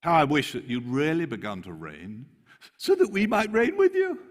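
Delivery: soaring high sarcastic wish; tongue in cheek. Acted. Paul mocking the Corinthians, high sarcastic longing. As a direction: sigh it with mock longing. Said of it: "Tongue in cheek".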